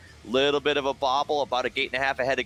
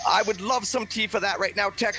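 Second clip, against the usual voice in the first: put-on British accent; 4 semitones higher than usual. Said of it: "Would you like some tea with that?".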